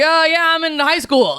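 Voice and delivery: high, airy mock voice of a grown man; mock dumb stoner. Friend mocks the thirty-five-year-old, mock high voice. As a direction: play the clueless adult pretending to be a teen. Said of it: "he's like".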